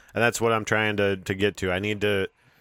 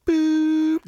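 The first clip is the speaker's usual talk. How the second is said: flatline beep; 5 dB louder than usual. Retold or imitated. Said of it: "Good flatline impression".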